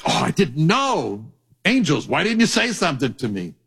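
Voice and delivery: a God pretending not to know, hammed up; mock shocked God. Preacher voicing God feigning surprise to angels, mock shocked. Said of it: "act shocked".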